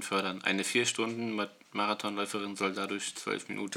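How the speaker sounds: fading to a soft murmur. Real, not acted. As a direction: let the reading die away. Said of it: "Du wirst immer leiser".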